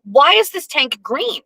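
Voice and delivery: pitched high, scolding the fish; half-playful exasperated telling-off; mock angry rant. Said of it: "would start getting mad at Sam Rothstein".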